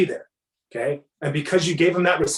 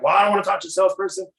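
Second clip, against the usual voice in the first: wary customer; 2 semitones higher, faster than usual. Retold or imitated. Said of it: "you can tell based on their tone".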